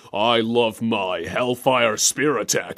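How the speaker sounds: low, slow villain voice; put-on game-fighter voice; Scorpion impression. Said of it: "And Scorpion goes".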